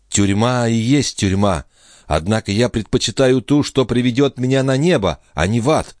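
put-on high girlish voice, stubborn and resentful; defiant young woman. A narrator's reading. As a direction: spit out her preference for heaven. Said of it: "проговорила девушка и яростно".

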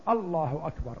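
الله أكبر firm, even, falling at the end; certain takbir. Shown as a demonstration. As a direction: say it with conviction. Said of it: "عن يقين وجزم".

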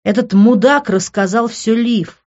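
heated, forceful outburst; angry yelling. A narrator's reading. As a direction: yell it as a furious reproach. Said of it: "заорал он".

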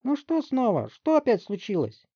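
high, loud squeaky voice of an annoyed mother. Acted. Barry's mother yelling from her bedroom, squeaky and annoyed. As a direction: screech like a fed-up slob mom. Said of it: "песклявый голос матери Барри".

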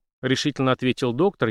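ordinary delivery, nothing marked

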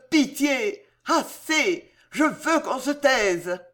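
rising frantic cries for mercy, pitch climbing; anguished pleading. Acted. Charles begs the cries in his head to stop, anguished pleading. Charles tormented, begging the voices.

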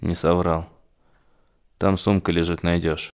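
faint, beaten voice; weak and quiet. Acted. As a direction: answer barely, hurt. Beaten captive answers weakly.

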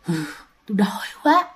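low, slow hungry spirit; imitated ghostly moan of hunger; moaning possessed man. A narrator's reading. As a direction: groan it softly and slowly, as if possessed. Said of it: "Ngồi gật gù xong rên".

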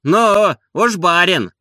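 high, loud and sneering; sarcastic. A narrator's reading. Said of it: "заметил язвительно кучер".

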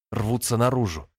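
ordinary delivery

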